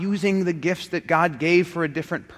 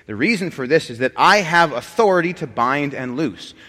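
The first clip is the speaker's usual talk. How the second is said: pompous pope; 4 dB louder than usual. Acted. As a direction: lord it over them as the pope. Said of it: "says Pope Fartass".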